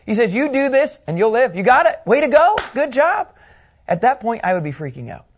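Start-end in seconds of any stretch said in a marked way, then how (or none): 0.3-3.3 over-the-top praise. Acted. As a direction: pile on the praise, pitch climbing. Jesus voiced cheering the lawyer.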